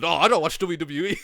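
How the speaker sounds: giggling through a fake denial; laughing mock denial. Mocking the fan's denial, laughing through it. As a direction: laugh while pretending innocence.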